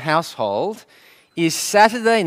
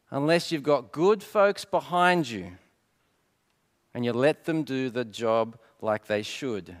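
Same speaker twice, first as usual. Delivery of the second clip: put-on mentor's advice, no accent; 3 dB louder than usual. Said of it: "in an American accent I won't attempt".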